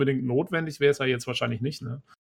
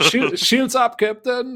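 high, loud officer report; bridge officer callout; 8 semitones higher, 3 dB louder, much slower than usual. Pretend. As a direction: call it to the captain.

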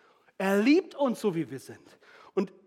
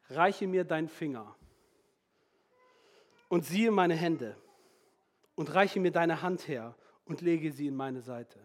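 soft, slow, lower and tender; gentle invitation; 4 semitones lower, 4 dB quieter than usual. Retold or imitated. Jesus gently invites Thomas.

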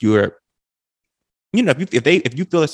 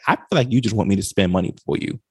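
flat, even monotone, no anger; 2 semitones lower, faster than usual. Retold or imitated. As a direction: state it in a level monotone. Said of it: "I'll say it in a monotone voice".

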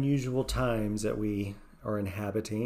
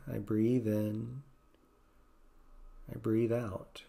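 gentle mantra; slower than usual. Shown as a demonstration. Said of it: "Maybe just gently saying".

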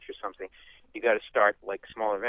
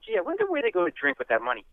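mock wonder; 13 semitones higher, faster than usual. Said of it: "you go".

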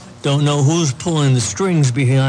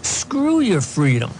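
slow, higher mock Schwarzenegger line; Arnold voice; 5 semitones higher than usual. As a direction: drag it out like Arnold. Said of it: "He said".

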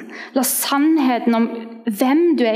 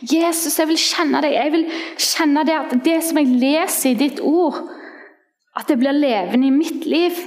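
higher, earnest cry to God; pleading prayer; 4 semitones higher than usual. Retold or imitated. Young believer crying out to God each night, higher pleading prayer. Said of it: "jeg ropte til Herren".

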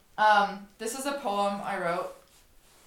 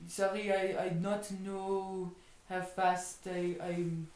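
put-on slow, hesitant French-accented English, lower and softer; pretend French accent; 3 semitones lower, 7 dB quieter, slower than usual. Skier excusing speeding to whoever stopped them, pretend French accent. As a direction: stall apologetically in broken French-accented English. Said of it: "And I'll just speak French".

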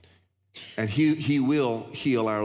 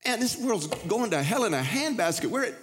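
much higher, impassioned complaint; impassioned preaching; 10 semitones higher than usual. Real, not acted. A preacher lamenting the world to his congregation, impassioned. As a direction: pour out the frustration at full force.

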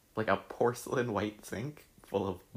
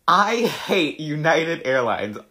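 loud slow ranting yell, pitched up; mock shouting; 6 semitones higher, 10 dB louder, slower than usual. Reading her old all-caps rant at the airline loudly. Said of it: "all capitals".

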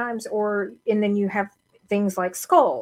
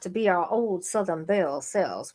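put-on Southern belle accent. Answering the co-host's challenge, genteel Southern belle accent. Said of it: "say it in the right accent".

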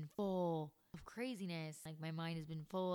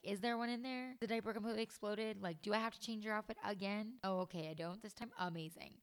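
put-on higher, quicker teasing baby talk; joking to baby; 4 semitones higher, faster than usual. Mom joking to her baby about an exploded diaper, light singsong tease. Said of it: "make jokes about it and be like".

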